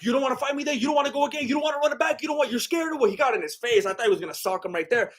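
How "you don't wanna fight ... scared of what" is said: mock taunt. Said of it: "he was like".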